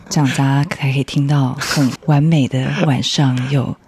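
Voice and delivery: slow, lightly sultry radio read; sultry late-night voice. Pretend. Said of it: "需要这种声音".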